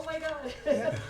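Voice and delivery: high, slow mock astonishment; surprised gasp. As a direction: act out being stunned. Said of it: "I was like".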